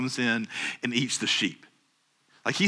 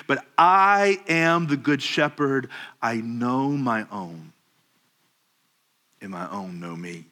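solemn quote. Acted. Jesus quoted, solemn and slowing.

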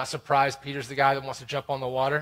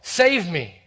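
Peter's desperate cry for help, much higher and louder; 6 semitones higher, 10 dB louder, much slower than usual. A narrator's reading. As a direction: call out for rescue while sinking. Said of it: "he cried out".

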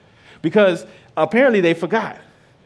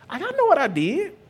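put-on high, whiny kid talking back; sulky kid to parent; 7 semitones higher than usual. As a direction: play the fed-up child who's heard it all. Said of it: "I didn't like it as a kid".

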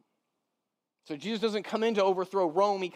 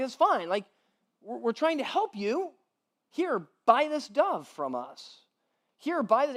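money changers; 6 semitones higher than usual. Retold or imitated. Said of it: "And they're like".

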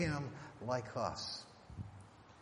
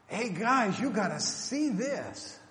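breezy, higher mock-casual call; 6 semitones higher, 4 dB louder, slower than usual. Pastor mocking a casual Isaiah, breezy and higher. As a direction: toss it off like a tourist.

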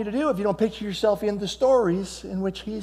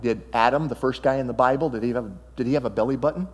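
amused joke; 4 semitones lower than usual. Real, not acted. Joke about Adam's belly button.

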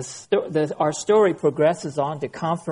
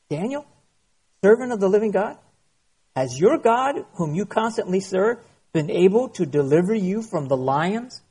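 calling out anxiously, voice raised; troubled cry; 3 semitones higher than usual. Acted. The king calls anxiously to Daniel in the den, troubled cry. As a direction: call into the den, fearing the worst. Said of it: "he cried out with a troubled voice".

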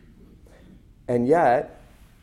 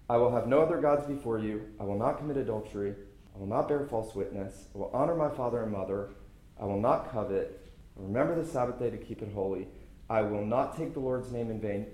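quiet, fast self-satisfied reciting under the breath; mock inner recital; 3 semitones lower, 11 dB quieter, faster than usual. A preacher mimics someone quietly ticking off the Ten Commandments, hushed and fast. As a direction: rattle off the commandments softly to yourself. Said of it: "and think".

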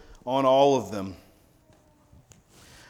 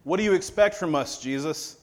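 incredulous disciples; 3 semitones higher than usual. Retold or imitated.

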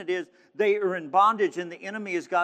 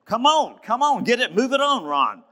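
urging himself on; 4 semitones higher, 5 dB louder than usual. Real, not acted. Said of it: "I'm having a hard time getting through this".

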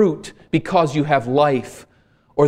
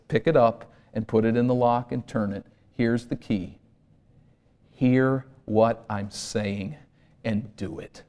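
gentle instruction; 2 semitones lower, 5 dB quieter than usual. Pretend. Jesus voiced handing the key.

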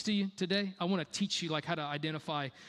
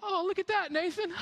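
mock God voice; 13 semitones higher than usual. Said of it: "if I were God, this is what I would do".

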